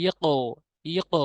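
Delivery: ইকো with the echo bouncing up toward ও; ইকো, ক kicked upward; ইকো said with an upward bounce; qalqala rising. Shown as a demonstration. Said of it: "এখানে হবে ইকো".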